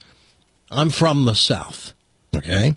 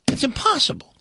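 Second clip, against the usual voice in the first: whisper; 13 semitones higher, 3 dB quieter than usual. Real, not acted. Aside doubting the sermon.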